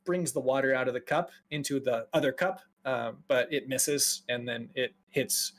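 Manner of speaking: usual speaking voice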